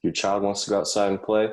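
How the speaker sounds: high-pitched mock advertising question. Comic posing a parenting problem to parents, mock ad pitch. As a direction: pitch it high, like a commercial's setup.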